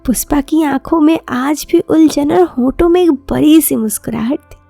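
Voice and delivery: ordinary delivery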